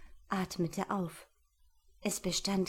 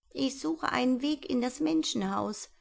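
mouse from afar; 5 semitones higher than usual. Acted. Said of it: "aus sicherer Entfernung".

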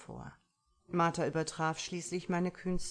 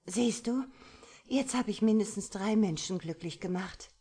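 playful, coquettish boast, a little higher and louder; 5 semitones higher, 5 dB louder than usual. A narrator's reading. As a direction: tease him with a flirty lilt. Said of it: "sagte sie kokett".

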